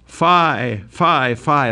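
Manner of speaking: a touch of self-loathing; cries out. Acted. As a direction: push the words away in self-disgust. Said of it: "he cries out".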